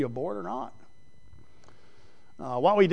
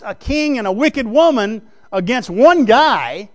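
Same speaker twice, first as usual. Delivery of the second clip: loud, high, driving pulpit delivery; preaching at full force; 8 semitones higher, 11 dB louder than usual. Acted. Preacher thundering to his congregation about Elijah's lone stand, loud and high. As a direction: preach it hard, building to a climax.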